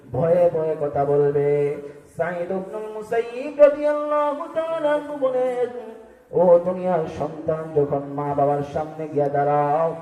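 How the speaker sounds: rhythmic sing-song sermon cadence; melodic preaching. Acted. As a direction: preach in a lilting chant, stretching phrase endings.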